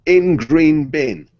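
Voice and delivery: very slow, spaced-out words; deadpan note reading. Retold or imitated. Storyteller reading the courier's ticket, slow and deliberate. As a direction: read the scrawled note word by word. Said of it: "scrawled on the ticket was".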